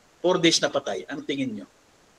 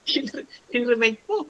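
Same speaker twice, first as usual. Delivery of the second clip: laughing; 9 semitones higher, 5 dB quieter, slower than usual. Real, not acted. Laughing at cremation joke.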